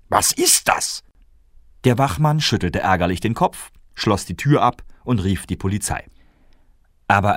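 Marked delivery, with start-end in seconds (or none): 0.1-1.0 very high whispered question; baffled whisper. Acted. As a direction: ask it in a wondering high whisper. Melchior asks what papers are.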